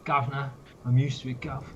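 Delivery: Cockney accent, Gov; a hint of a London cabbie. Shown as a demonstration. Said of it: "my best London accent".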